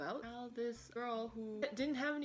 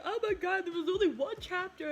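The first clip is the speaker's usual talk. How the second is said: louder, higher mock outburst of disbelief; dismayed outburst; 9 semitones higher, 7 dB louder than usual. Reader hits the last released chapter, mock loud dismay. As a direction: exclaim that there was only one chapter. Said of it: "and be like".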